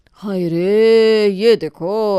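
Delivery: drawn-out mocking wail; mocking sigh. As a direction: stretch it out in mock dismay.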